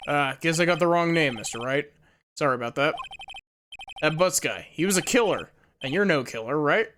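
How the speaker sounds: lightly voiced tough-guy cop; a hint of a brusque detective warning off a stranger; gruff detective. Player voices Detective Gumshoe.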